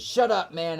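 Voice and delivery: high and loud, punchy; the original shout before the echo; shouted lyric. Shown as a demonstration. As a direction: yell it like the track does. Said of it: "it's like this".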